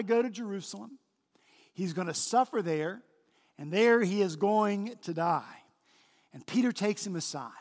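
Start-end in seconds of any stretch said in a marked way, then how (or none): none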